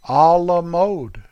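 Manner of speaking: "A la mode" slow and careful, put-on French; mock French pronunciation. Shown as a demonstration. Vlogger redoing A la mode in proud mock French. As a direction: savor "A la mode" slowly like a Frenchman. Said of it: "Let me say it right".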